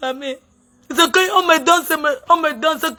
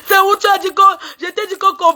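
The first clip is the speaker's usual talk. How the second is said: tearful accusation; 3 semitones higher than usual. Real, not acted. Crying accusation at Patrick.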